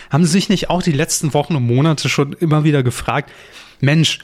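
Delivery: cheesy ad lead-in, rising excitement; chipper 1950s ad. Pretend. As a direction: sell it like a teleshopping host. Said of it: "immer wenn ich so anfange". (überdrehte Werbeansage)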